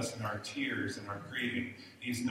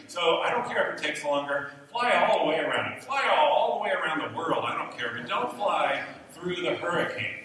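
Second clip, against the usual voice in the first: nervous passengers' plea; 4 semitones higher, 6 dB louder than usual. Retold or imitated. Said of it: "all of us on the plane were like".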